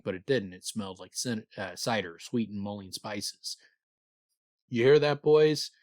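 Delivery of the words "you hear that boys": put-on loud, high shout to the boys; showy mocking shout to his men. A narrator's reading. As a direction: call it out loud over your shoulder. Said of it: "He shouted over his shoulder".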